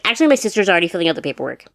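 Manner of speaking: snappy little-sister retort, quick; bratty, quick. Retold or imitated. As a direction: cut her off like a bratty sister. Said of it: "being the bratty younger sister".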